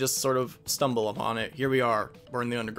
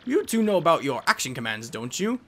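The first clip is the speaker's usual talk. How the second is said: scholarly professor giving directions; professor guide; 3 semitones higher than usual. Acted. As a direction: caution the party like a mentor.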